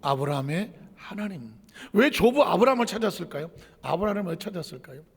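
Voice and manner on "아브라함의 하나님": solemn prayer. Retold or imitated. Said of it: "야곱의 기도를 들어보면 이렇습니다".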